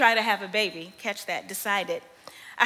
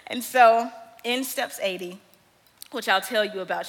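ordinary talk, nothing marked

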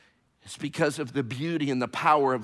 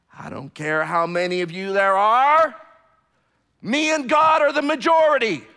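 loud, high preaching cry; fiery pulpit delivery; full-force preaching; 10 semitones higher, 9 dB louder than usual. Acted. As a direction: proclaim it to the back wall.

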